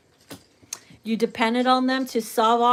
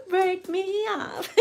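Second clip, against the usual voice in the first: higher, slow, laughing through it; giggling the lyric; cracking up mid-lyric; laughing repeat; 9 semitones higher, slower than usual. Retold or imitated.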